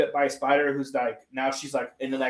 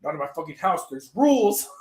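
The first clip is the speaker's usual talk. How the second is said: mock-tough retelling, rising on the last words; gangster aunt. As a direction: imitate a tough aunt laying down rules. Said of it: "Aunt May's just fucking gangster".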